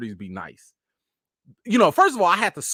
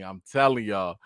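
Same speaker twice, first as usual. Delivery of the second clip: ordinary delivery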